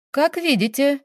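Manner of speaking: not bothering with politeness; curt. A narrator's reading. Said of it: "не слишком вежливо ответила Таисия".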